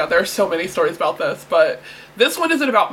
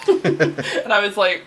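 normal talking voice

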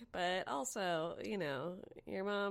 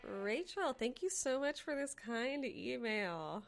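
warm thanks; 6 semitones higher than usual. Real, not acted. Host thanking listener warmly.

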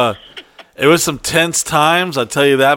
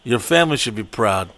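inspirational speech; 3 semitones lower than usual. Retold or imitated. Speaker addressing the Colombian women, lower solemn pep talk. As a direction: give a solemn motivational talk. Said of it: "inspirational meeting".

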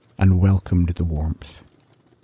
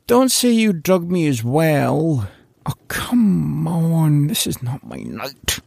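dismayed Larry; 7 semitones higher, slower than usual. Acted. Larry suspects drugging.

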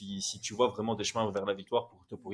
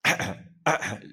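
coughing fit. Pretend. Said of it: "Je tousse pour toi".

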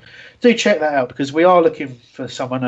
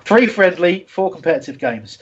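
higher-pitched mock Russian accent on a read-out fan message; jokey put-on Russian accent, reading a fan's comment aloud; faux Russian accent; 3 semitones higher than usual. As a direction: ham up a fake Russian accent while reading. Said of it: "read this in a sort of faux Russian accent".

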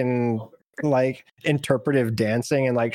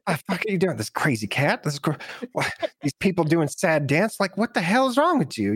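rising, baffled outburst; what is wrong with these people; incredulous rant; 6 semitones higher than usual. Acted. Eliza baffled by the sad dance, higher incredulous voice. Eliza rants at weird party.

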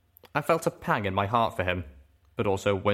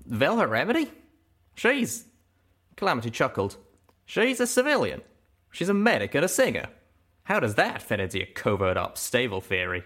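Calamity's voice, scoffing; 4 semitones higher than usual. Acted. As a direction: brush it off in the cowpoke voice. Calamity chuckling, higher.

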